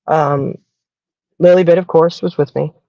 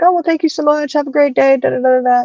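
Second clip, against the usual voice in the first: much higher, chirpy grateful goodbye; gushing thanks; 9 semitones higher than usual. Retold or imitated. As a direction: mimic the lady's sweet sing-song thanks. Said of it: "She's like".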